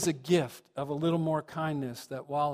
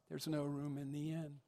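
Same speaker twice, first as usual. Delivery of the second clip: soft refusal; 11 dB quieter than usual. Acted. Innkeeper refuses Joseph in pageant.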